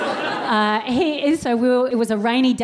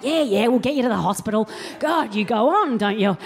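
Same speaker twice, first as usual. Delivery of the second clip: quick, brushed-off mock mum; dismissive Mum. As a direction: wave the kid off impatiently. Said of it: "She's like".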